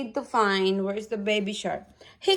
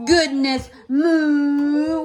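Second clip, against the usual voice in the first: mild cow voice; 4 dB louder, much slower than usual. Acted. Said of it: "he said".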